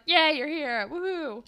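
high-pitched mimicked cheer; so excited. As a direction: imitate an excited friend greeting arrivals. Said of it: "Allie is so excited".

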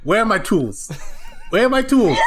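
Luigi searching in a panic; frantic Luigi. Acted.

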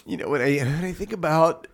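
halting, emotional attempt to speak; a touch tearful; choked up. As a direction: get stuck on welling feeling. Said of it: "speaking when I get emotional".

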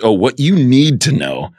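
mock timid guilty admission; shaking audience guy. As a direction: imitate a nervous viewer owning up. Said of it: "raises his hand shaking and he goes".

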